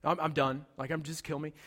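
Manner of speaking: weary resignation. Retold or imitated. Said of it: "He refuses to pray. He says".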